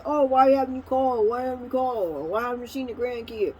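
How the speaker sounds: a hint of a complaining father; lightly voiced nagging dad; imitating dad. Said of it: "my dad might say".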